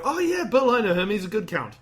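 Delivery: high, loud opening that settles down; hearty mock praise of a pal; friendly endorsement. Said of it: "Where you'd go".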